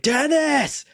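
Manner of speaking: high, drawn-out mock shout; retold yell. Drunk fan calling to an actor on the field, imitated yell. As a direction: holler a name across a stadium. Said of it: "I'm yelling, I'm like".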